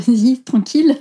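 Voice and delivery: laughing nervously through the words; an uneasy, nervous chuckle. Real, not acted. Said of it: "c'est un rire nerveux". (rire nerveux)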